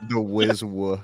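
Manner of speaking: comedian impression, r melting into w; Sam Morril voice. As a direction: echo it in a mock comedian voice. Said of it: "in Sam Morril voice".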